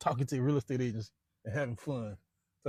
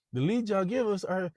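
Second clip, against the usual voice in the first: whiny salesman; 8 semitones higher than usual. Retold or imitated. Salesmen complaining, voiced.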